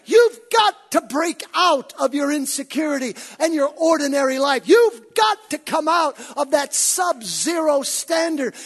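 loud, high preacher's climax; preaching. Acted. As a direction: drive it home with fire. Preaching at full force.

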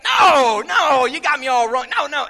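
high, loud imitated objection; loud mock protest. Woman defends her church friends to an unbeliever, loud protest. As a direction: burst out in exaggerated denial.

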